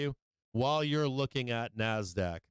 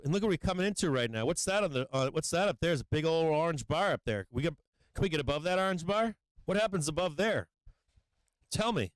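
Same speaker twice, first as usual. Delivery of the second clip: higher, quick hopeful chatter; eager excitement; 3 semitones higher than usual. Real, not acted. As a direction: egg the price on. Excited commentary at chart.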